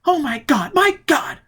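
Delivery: very high, loud wail; horrified cry. Acted. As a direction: cry out in horror. Robin horrified by the death.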